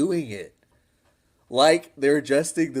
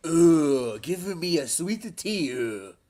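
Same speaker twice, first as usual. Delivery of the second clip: mock surfer voice; 3 semitones higher, slower than usual. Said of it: "the voice to be doing".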